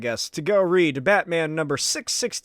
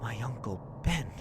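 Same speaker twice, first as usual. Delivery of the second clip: much lower, softer, near whisper; hushed broken accusation; quiet accusation; 5 semitones lower, 6 dB quieter than usual. Acted. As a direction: let the grief hollow out the words. Spider-Man confronts uncle's killer.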